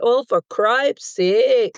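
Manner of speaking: drawn-out, exasperated Midwestern cussing; upset local expletive. Shown as a demonstration. Guest showing what locals say when upset, exasperated. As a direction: stretch out the mild oath slowly. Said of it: "if something is really upsetting you".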